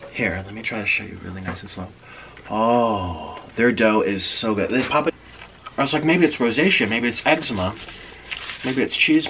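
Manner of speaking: chewing between words; muffled by food in mouth; talking with mouth full. Real, not acted. Seen 0: cheeks full and chewing to 4.7s, bites bread at 3.4s.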